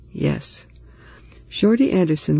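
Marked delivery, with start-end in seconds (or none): 0.1-0.7 whispering. Acted. Frightened child admits to father.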